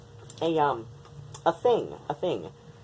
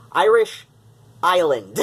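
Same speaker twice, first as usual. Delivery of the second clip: Irish said high and loud, island stressed; correcting a slip; 4 semitones higher, 5 dB louder than usual. Real, not acted. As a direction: fix the slip by hitting Irish. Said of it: "it's an Irish Ireland".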